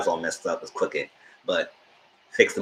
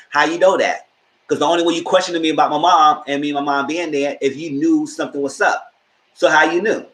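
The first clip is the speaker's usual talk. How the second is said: higher, pressing accusing questions; defiant challenge; 6 semitones higher than usual. Retold or imitated. Witness Tariq confronting the lawyer, higher and defiant. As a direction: push back at the lawyer, demanding answers. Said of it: "So he was like".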